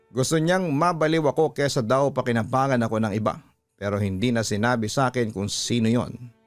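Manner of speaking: usual speaking voice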